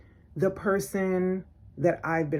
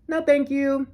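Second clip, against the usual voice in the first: pointed refusal; 7 semitones higher, 3 dB louder than usual. Retold or imitated. Curtly declining in retold exchange.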